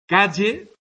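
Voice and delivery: "calle" with the LL said like a Y; yeísmo. Shown as a demonstration. Teacher demoing yeísmo, LL said as Y. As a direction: say "calle" as caye. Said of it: "El yeísmo es pronunciar".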